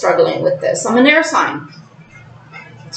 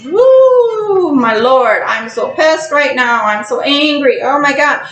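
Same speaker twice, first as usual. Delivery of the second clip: lightly acted rage, pissed off; mock anger; 3 semitones higher than usual. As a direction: play being furious at someone in front of you. Acting out an angry outburst.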